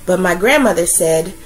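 put-on gentle storytelling voice for children; story narration. A narrator's reading. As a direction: read it like a bedtime picture book. Reads a picture book aloud.

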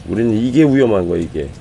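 ordinary talk

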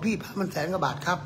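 hushed, deferential mock relay; polite go-between. Relays price politely to customer.

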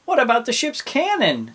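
high, loud little pirate; Dots. A narrator's reading. Pirate to captain at the jail, high eager voice. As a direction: chime in far above normal pitch. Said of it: "said Dots".

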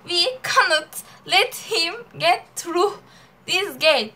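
loud, emphatic Turkish-accented English. Shown as a demonstration. Showing friend "al sana Türk aksanı", a loud Turkish accent. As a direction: hit every word hard in a heavy Turkish accent. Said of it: "Ha, al sana Türk aksanı".

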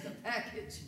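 breathed out, barely voiced; whispered. Retelling the bakery gossip, fading into a whisper. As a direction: let the last "package" fall to a whisper. Repeating the street's gossip word.

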